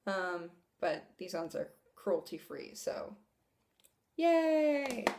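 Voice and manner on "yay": high, loud drawn-out cheer; happy high-pitched whoop; little cheer. Real, not acted. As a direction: celebrate with a bright, stretched squeal. Cheering that brushes are cruelty-free.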